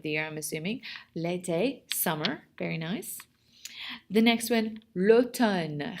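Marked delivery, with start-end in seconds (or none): 4.9-6.0 l'automne pronounced clearly for learners; model pronunciation. Shown as a demonstration. French teacher has the class repeat, l'automne modelled clearly. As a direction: say l'automne distinctly as a word to repeat. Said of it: "Répétez, s'il vous plaît".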